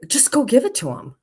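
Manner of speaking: lightly voiced husband nudging her to go; insistent husband. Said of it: "And he's like".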